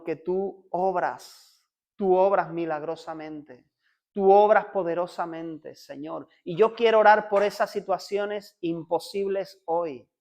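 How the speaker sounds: fervent, steady prayer voice; earnest prayer. Acted. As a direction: pray aloud for the congregation. Leads a spoken prayer. (oración ferviente en voz alta)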